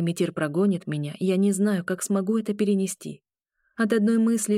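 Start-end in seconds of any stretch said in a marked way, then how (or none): none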